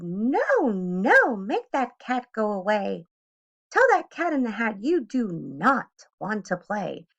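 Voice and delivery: a worried fish pleading to send the cat away; fussy fish. Acted. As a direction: panicky fish warning the children. The fish protests.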